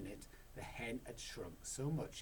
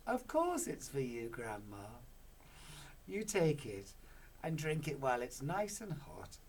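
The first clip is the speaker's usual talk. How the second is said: sweetly; 4 semitones higher, 5 dB louder than usual. Acted. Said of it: "he smiled sweetly".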